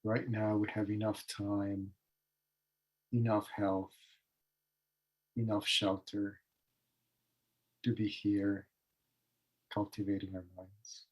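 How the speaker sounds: measured phrases with long pauses between; calm, unhurried meditation leading; guided meditation. Real, not acted. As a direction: guide them into stillness, leaving space after each phrase. Leads a meditation.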